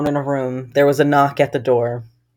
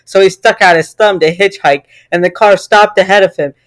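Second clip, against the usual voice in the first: mock-serious scary tale; story reading; 4 dB louder than usual. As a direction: read an absurd gory story aloud. Reads creepypasta aloud.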